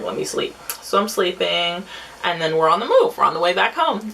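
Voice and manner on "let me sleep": sleepy mumble. Retold or imitated. Sleepy under blanket in car.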